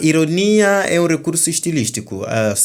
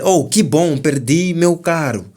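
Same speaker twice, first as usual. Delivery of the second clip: higher and louder, fake delight over bad news; mock cheerful irony; 4 semitones higher, 3 dB louder than usual. Shown as a demonstration. Teacher acting out an ironic reply for students, mock cheerful. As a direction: sound pleased about losing the car.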